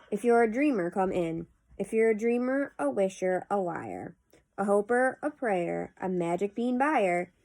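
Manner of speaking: measured, lilting poem reading; poetry recitation. Acted. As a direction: read the verse aloud with pauses at each phrase. Reads a poem aloud.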